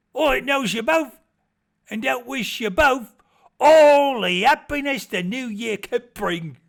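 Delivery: put-on high, loud, hearty old villager proclaiming; hearty villager toast. Villager toasting Trotty before the wedding, high and hearty. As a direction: raise the glass and boom out good wishes.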